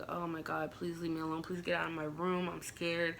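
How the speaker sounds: softly voiced inner plea. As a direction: plead under your breath, as if he mustn't hear. Silent frightened plea in her head.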